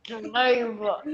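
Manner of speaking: a hint of a growly lion. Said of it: "say delightful like a lion".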